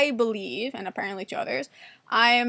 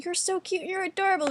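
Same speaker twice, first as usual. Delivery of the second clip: high-pitched cooing compliment; imitated gushing friends; 7 semitones higher than usual. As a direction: coo it like an adoring friend.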